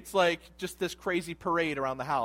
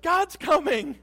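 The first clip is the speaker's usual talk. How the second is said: panicked whisper-shout; 13 semitones higher, 12 dB louder, slower than usual. Retold or imitated. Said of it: "we'd be like".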